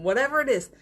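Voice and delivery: usual speaking voice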